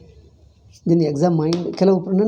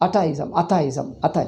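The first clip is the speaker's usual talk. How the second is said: imitating Italian speaker. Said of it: "he calls it atavism".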